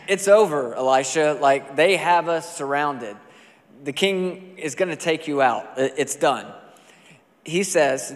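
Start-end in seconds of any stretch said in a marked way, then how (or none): 0.1-6.5 panicked servant. Retold or imitated. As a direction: play the servant who thinks it's all over. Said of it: "So the servant's freaking out".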